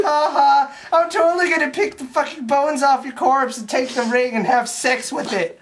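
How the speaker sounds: lightly voiced gloating villain; gloating Gollum. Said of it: "he's being like".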